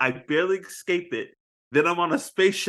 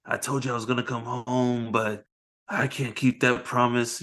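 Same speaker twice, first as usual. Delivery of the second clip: tender; 4 semitones lower, 3 dB quieter than usual. Retold or imitated. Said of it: "he's like".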